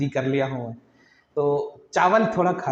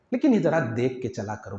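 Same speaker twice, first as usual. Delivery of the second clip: gentle smiling reminder; 5 semitones lower than usual. Shown as a demonstration. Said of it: "मुस्कुरा कर आप ऐसी मुस्कुराहट हो".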